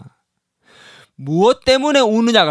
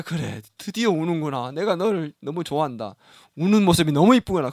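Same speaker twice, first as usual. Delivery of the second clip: mock tender praise. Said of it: "막 우는 자에게".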